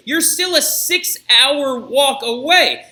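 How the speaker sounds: drawn-out sneering taunt, rising high and loud; mocking guards. Guards taunting the women at the gates, drawn-out sneer. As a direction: taunt them slowly, stretching out each word.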